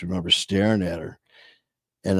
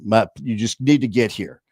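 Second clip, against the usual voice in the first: mildly abrupt, insistent retold plea; retold firm demand to mom; a little abrupt. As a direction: cut through with a touch of impatience. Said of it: "you know, abrupt".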